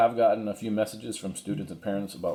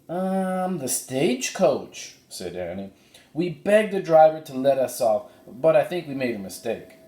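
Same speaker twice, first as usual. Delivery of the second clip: put-on higher eager girl's voice; voicing Annie; 7 semitones higher, 4 dB louder than usual. Annie tells the cowboy about the foal, higher girl's voice. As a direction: Annie explaining in a bright higher voice.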